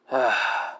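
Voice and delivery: weary audible sigh; short resigned exhale; grim sigh. A narrator's reading. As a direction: sigh before a hard admission. Grim Hiruzen sighs mid-speech.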